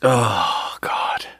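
breathy whispered sigh. Real, not acted. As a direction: whisper it, spent from laughing. Recovering from laughter.

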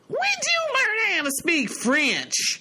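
high, slow, amazed mother. Retold or imitated. Mother asking her daughter when she learned French, high and slow. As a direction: draw it out in disbelief. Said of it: "My mother's like".

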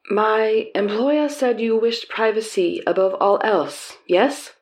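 put-on slow, lightly done Southeast Asian accent. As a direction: introduce himself in a mild Southeast Asian accent. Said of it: "my attempt at a generic Southeast Asian accent".

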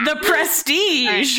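slow, mock grand announcement; mock grandeur. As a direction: drag it out like a movie trailer.

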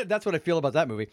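fast words between coughs; cough-laughing through the line; choking on a drink. Real, not acted. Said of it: "I'm choking on tea".

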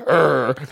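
drawn-out put-on growl; playful caveman-style "urgh"; mock manly grunt. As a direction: grunt like a pretend grown man. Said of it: "I'm not like".

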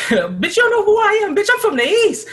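imitating a woman squaring up outside the club; mock fighting woman. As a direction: throw down like a brawler. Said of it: "the chick was like".

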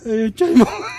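high panicked shout; panicked under fire. Acted. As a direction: scream it in terror. Batman in a shootout.

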